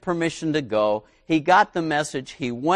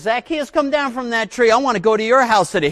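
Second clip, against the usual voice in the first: higher, louder call up a tree; 7 semitones higher, 3 dB louder, faster than usual. Retold or imitated. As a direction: call him down warmly. Jesus calls up the tree.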